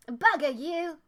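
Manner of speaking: lightly put-on Australian character accent; attempted Australian accent. Game player voicing Kid to stream viewers, shaky attempt at Australian accent. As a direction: try an Australian accent, not quite landing it. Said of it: "I can't do this accent".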